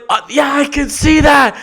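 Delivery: high, loud, whiny helpless owner; hammed-up falsetto dithering owner; flustered dog owner. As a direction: squeal like a useless owner in a panic. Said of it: "they're like".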